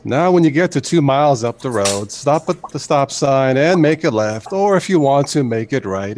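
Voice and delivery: calm navigation voice reading directions; Morgan Freeman gps voice. Retold or imitated. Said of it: "Morgan Freeman doing a G P S voice".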